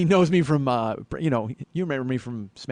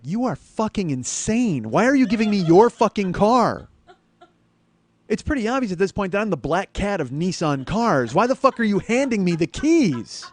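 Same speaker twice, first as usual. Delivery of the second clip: high, loud comic disbelief; incredulous outburst; 6 semitones higher, 6 dB louder than usual. Acted. Customer's inner voice at manager lending his own car, loud incredulous rant. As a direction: swell from emphatic to yelling in disbelief.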